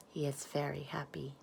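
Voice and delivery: soft unvoiced whisper; hushed storybook close; whispered ending. A narrator's reading. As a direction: let the line fade into a tender whisper.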